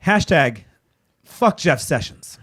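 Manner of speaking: each word spelled out slow and heavy; a slow, weighted sign-off curse; slow emphatic curse. Real, not acted. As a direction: drag out fuck Jeff Sessions, deliberate. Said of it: "allow me to reiterate just one more time how I feel".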